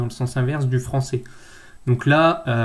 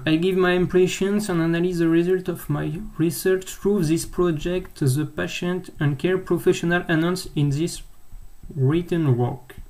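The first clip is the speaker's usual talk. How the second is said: self-mocked English accent; 4 semitones higher than usual. Real, not acted. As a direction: read formal English aloud with a French accent. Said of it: "avec mon super accent anglais".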